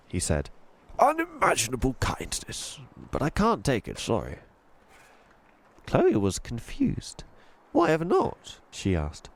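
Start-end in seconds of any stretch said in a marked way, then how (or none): 1.0-4.4 put-on posh old tramp. Voices Mister Stink. 7.7-8.6 put-on young girl voice. Voices Chloe.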